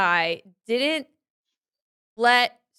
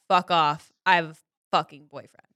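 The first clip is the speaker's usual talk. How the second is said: "Fuck off, I have a fucking boyfriend" as a mild mock snap; a half-hearted rude brush-off; 5 semitones lower than usual. Shown as a demonstration. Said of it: "or are you saying".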